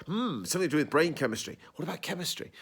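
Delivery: lightly hammed-up musing; mock overplaying. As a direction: act out clunky dialogue, mildly overdone. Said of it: "they're overplaying".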